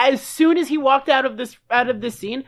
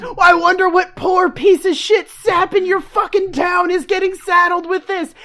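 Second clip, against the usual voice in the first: mock gloating; 4 semitones higher than usual. Sheriff character mocking Andy's town.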